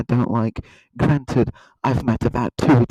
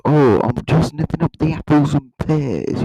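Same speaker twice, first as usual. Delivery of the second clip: put-on Cockney Londoner; mock East End Cockney; Cockney accent. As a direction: do a jokey Cockney voice. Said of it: "Cockney, they go".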